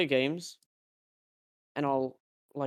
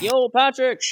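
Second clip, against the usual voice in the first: calling out; 11 semitones higher, 13 dB louder, slower than usual. Retold or imitated. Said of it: "I'm like".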